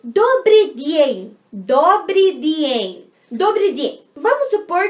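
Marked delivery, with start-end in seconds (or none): 0.0-1.4 добрый день very slow and loud, vowels stretched out; slow teaching model. Shown as a demonstration. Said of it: "você vai falar". 1.5-3.1 добрый день very slow and loud, vowels stretched out; slow teaching model. Shown as a demonstration. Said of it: "você vai falar".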